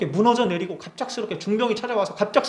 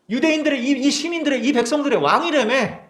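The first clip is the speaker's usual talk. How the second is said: much higher, jeering question; mocking taunt; 7 semitones higher than usual. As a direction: taunt him like the crowd below. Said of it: "그러면서 놀리는 거예요". (군중이 예수님을 놀리는 높은 조롱)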